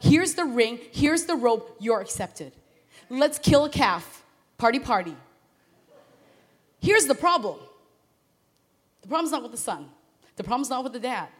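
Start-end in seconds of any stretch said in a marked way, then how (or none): 0.0-5.2 joyful welcome. Retold or imitated. Father welcoming his son home, loud and celebrating. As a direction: throw open your arms, partying. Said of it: "It's like".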